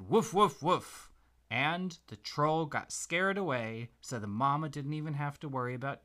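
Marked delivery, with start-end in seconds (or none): 0.0-1.1 high, loud brave woofs; dog barking. Acted. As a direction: bark to scare the troll away. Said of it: "And the doggy said".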